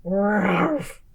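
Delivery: a bear's growled ruff; light bear growl. Acted. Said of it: "growled Old Bear".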